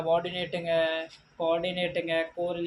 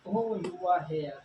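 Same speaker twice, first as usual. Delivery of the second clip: surprised exclamation; much slower than usual. Shown as a demonstration. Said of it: "ये होता है exclamation mark".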